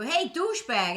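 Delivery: a brash Boston granny greeting; imitating Boston grandma's rough hello; grandmother's greeting. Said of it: "she'd go".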